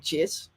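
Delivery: "Cheers" with the pitch rising at the end; Australian upward ending. Shown as a demonstration. Host showing how Australians talk, "Cheers" on a rising tune. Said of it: "end everything on an up".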